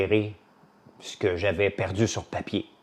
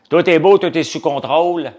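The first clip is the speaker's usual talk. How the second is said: mock official reassurance; 7 semitones higher, 11 dB louder than usual. Pretend mayor reassuring Montreal.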